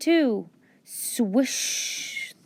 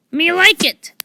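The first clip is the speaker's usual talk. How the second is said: delighted pirate; 9 semitones higher, 8 dB louder than usual. Acted.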